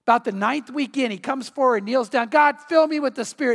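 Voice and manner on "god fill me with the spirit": higher, mock-yelled prayer; retold screamed plea. Man kneels down in the ninth week, mildly yelled plea. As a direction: imitate a churchgoer crying out to God. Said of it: "he would just start screaming out".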